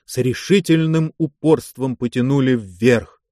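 ordinary delivery, nothing marked

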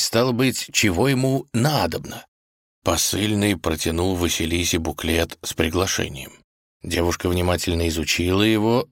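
ordinary delivery

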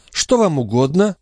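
put-on high, syrupy old crone; sugary old woman's voice. A narrator's reading. The concierge fawning over Marat in an old woman's voice. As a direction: lay on the sweetness like an old concierge. Grivette speaks.

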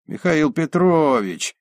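glad. Acted. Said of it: "обрадовался старый Н К В Дшник".

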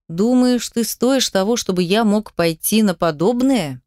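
ordinary delivery, nothing marked

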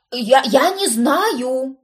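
slow pitiful high stammer. A narrator's reading. Cousin shrugging helplessly, pitiful stammer. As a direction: stammer it, pathetic. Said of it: "с жалким видом".

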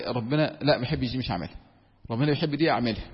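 softly voiced pious thought, dropping away; quiet inner voice. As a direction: murmur it like a private resolve. Imagined believer's inner thoughts.

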